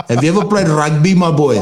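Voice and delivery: light mock Afrikaans accent on the quote; a hint of an Afrikaans accent, teasing the commenter; imitating an Afrikaans rugby fan with a light Afrikaans accent. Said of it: "I literally said it in an Afrikaans accent".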